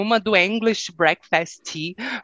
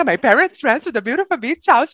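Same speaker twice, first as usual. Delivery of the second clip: stiff cassette-tape English sentence; textbook English; 5 semitones higher than usual. Retold or imitated. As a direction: recite like a language-course tape. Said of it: "responder a pergunta". (inglês de fita cassete)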